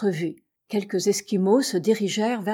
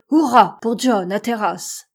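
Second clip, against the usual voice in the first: loud narrated hurrah; cheer; 6 dB louder than usual. A narrator's reading. Crew amazed by the manoeuvre, cheering their captain aloud. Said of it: "ne put retenir le cri de".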